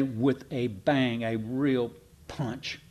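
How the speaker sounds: slow, weighty with a bang; slow emphasis. Shown as a demonstration. Preacher stressing the letter's bold opening, slowly. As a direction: drag out bang and punch. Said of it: "one might say".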